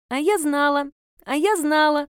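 put-on high, bouncy child chant; sing-song it while hopping; gleeful child. A narrator's reading. Girl hopping around her aunt, high gleeful chant. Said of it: "скакала на одной ножке".

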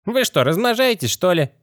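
high, otherworldly skeleton voice. Acted. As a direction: pitch it way up like a rattling skeleton. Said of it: "Наконец скелет заговорил".

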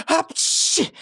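breathy high sneeze; a quick airy sneeze. Acted. Nisse sneezes before talking of birthdays. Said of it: "чихнув".

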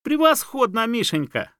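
very high, loud squeal. A narrator's reading. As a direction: shriek the praise. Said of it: "взвизгнула лиса".

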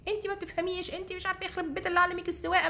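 angry rant. Retold or imitated. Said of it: "وقعدت تشتم فيا".

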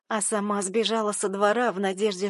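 ordinary delivery

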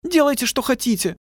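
high woman's voice, resigned; hopeless mutter. A narrator's reading. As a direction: let it go, beyond caring. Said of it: "пробормотала крупная". (высоким голосом, обречённо)

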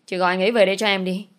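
half-crying, snap out the demand quickly; tearful scolding. Acted. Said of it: "vừa khóc vừa mắng". (vừa khóc vừa mắng, nói nhanh)

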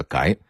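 改 said as gái with a rising second tone. Shown as a demonstration. Lecturer explains a dialect word, 改 pronounced rising as gái. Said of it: "这音应该是改".

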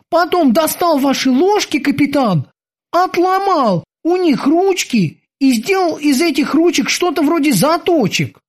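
high, eager sailor's voice; squeaky dutiful boatswain. Acted. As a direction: report to the captain like a keen young sailor. Boatswain Kiki tells the story.

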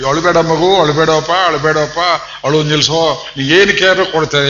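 put-on insistent, hurried hushing of a crying child; retold pleading with a child to stop crying; acted consoling. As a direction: plead lightly, as if soothing a child.

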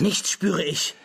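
höheres, trotziges Flüstern; stoße es gepresst hervor; geflüstert. Acted. Trotzige Verneinung. (trotzig geflüstert)

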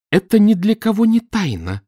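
high, loud shout; крик. A narrator's reading. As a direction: keep yelling at him. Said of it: "продолжала она кричать". (продолжает кричать на мужа)

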